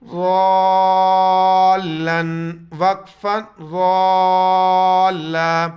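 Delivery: ضالاً drawn out, then stopped as ضالا; pause form. Shown as a demonstration. Teacher to students, demonstrates the pause form. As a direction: stop on ضالا with a long a. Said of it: "stop کرنے کی وجہ".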